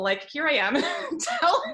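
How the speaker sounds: half laugh, half cry; laughing through tears. Real, not acted. Telling a friend something vulnerable, laughing while close to tears. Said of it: "it's very vulnerable".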